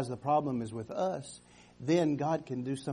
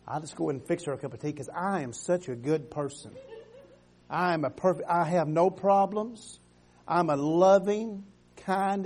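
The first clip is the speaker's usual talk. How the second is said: mock self-righteous. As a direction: play the smug good person with a laugh. Mock self-righteous skit monologue.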